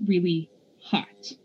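breathy hushed whisper. A narrator's reading. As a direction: whisper it slowly. Whispered realization.

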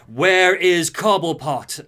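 raging Freeze. Retold or imitated. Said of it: "full of rage and is like".

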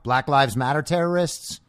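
ordinary talk, nothing marked

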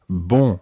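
bon with a strongly nasal vowel. Shown as a demonstration. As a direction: push bon through the nose. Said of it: "the first syllable is very nasal".

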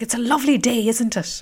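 chirpy small talk with a mild lilt; a hint of a beaming old countryman; cheerful West Cork man. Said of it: "he was so happy and cheerful and joyful".

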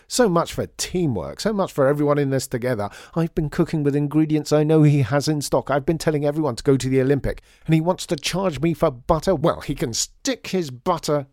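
a cook at the end of his tether, yelling; exploding with anger. A narrator's reading. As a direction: blow up over the butter. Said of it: "Lydia thought John was going to explode".

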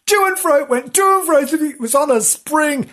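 high, lilting to and fro; bouncy singsong. A narrator's reading. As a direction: bounce it like a spring. Tail wagging lively narration.

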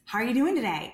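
lightly mocked excited sales pitch; excited, upbeat. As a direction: imitate an over-eager salesperson's upbeat opener. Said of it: "you sound excited and, and upbeat".

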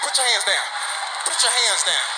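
mock threats in quick angry bursts; O.J. Simpson. Comic acting O.J. threatening someone, mock menace. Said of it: "O J come in".

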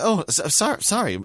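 high, huffy sorry; mock offended sorry; grudging sorry. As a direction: apologise while clearly annoyed. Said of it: "she's giving me this sorry".

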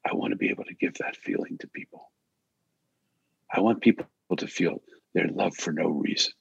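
soft, hushed words to himself; hushed self-talk, barely voiced; quiet inner voice. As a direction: say it softly under your breath. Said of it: "I said to myself".

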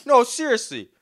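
high, loud mock-angry demand; hammed-up confrontation, laughter creeping in; retold serious demand. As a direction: imitate a man insisting, annoyed. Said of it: "he's like".

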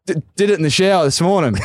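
high, quick casual excuse; imitating Kepler. Kepler explaining to the coach, high and quick. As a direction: toss it off fast and high. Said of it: "He goes".

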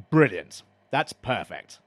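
sarcastic. Acted. Fed-up caller to the council on hold, sarcastic. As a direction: praise it but mean the opposite. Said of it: "Yes, I was being sarcastic".

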